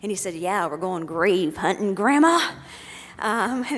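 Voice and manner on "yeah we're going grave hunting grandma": cheerful announcement. Retold or imitated. Son to grandma from his wheelchair, cheerful announcement. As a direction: imitate a boy breezily announcing it, last word rising loud.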